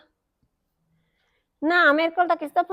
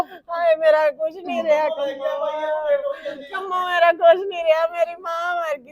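crying shout fading to sob; sobbing lament to her sister; grief cry; 2 semitones lower, 5 dB quieter than usual. Acted. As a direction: wail then break down softly.

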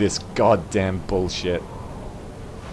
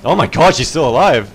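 excited shout; 2 semitones higher, 7 dB louder than usual. Real, not acted. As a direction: shout it out in joy. Loud repeat of same line.

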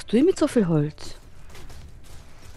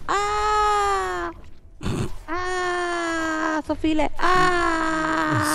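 high, panicked yells; panicked shouting; 10 semitones higher, much slower than usual. Real, not acted. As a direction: shriek in panic at the spiders. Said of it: "macht viel zu viel Panik".

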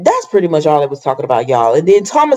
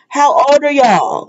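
exasperated question; 7 semitones higher than usual. Real, not acted. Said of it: "I'm like".

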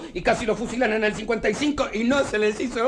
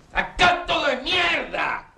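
higher, slowly dragged bitter verdict; bitter scorn; 6 semitones higher, much slower than usual. Acted. To Yoli about the country, slow bitter scorn. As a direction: spit it out slowly with disgust.

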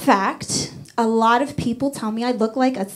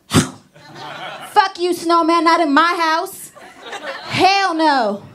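mock threat; 3 semitones higher, much slower than usual. Threatening the snowman.

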